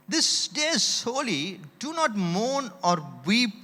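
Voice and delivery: drawn-out, solemn reading of the verse; slow scripture quote. Retold or imitated. Preacher quoting Nehemiah to the congregation, slow and solemn. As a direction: read it slowly like holy scripture. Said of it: "என்று சொல்றார்".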